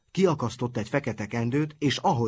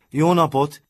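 loud, higher cheerful greeting; called out; 6 semitones higher, 9 dB louder than usual. A narrator's reading. Boys greet the Nonsmoker, calling out loudly. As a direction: call out the hello to him. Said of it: "kiáltottak mind".

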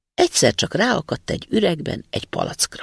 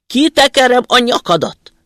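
roaring spirit; 10 semitones higher, 9 dB louder than usual. Acted. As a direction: roar it as a furious giant. Spirit threatens to kill.

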